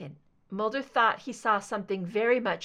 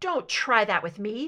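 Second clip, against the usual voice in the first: voice thick with contempt, scornful; 4 dB louder than usual. Scully rebuffs Deborah, who has just blamed her; thick with contempt. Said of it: "her voice thick with contempt".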